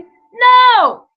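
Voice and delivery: loud, high, sudden no; shouted denial; emphatic shout. Real, not acted. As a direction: bark a flat refusal right out. Answers his own question emphatically.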